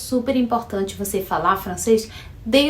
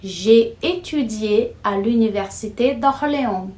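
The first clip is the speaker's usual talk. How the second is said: slow example sentence. Shown as a demonstration. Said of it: "Uma frase no passé composé".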